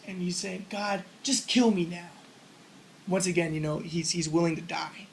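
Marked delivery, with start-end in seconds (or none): 0.7-2.1 slow, weary plea to God; despairing plea. Retold or imitated. Jonah begging God to end it, slow and despairing. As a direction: drag it out like you've given up. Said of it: "And Jonah's so upset about this".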